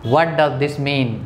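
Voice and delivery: slow, clear question; slow model question. Shown as a demonstration. Teacher showing how to ask a word's meaning slowly. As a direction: ask it slowly so learners follow. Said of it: "तो क्या कहेंगे?".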